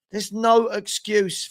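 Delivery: There's no excuse said slowly, each word weighed; firm, drawn-out no excuse; slow, deliberate. Shown as a demonstration. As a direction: spell out "no excuse" slowly, leaning on "no".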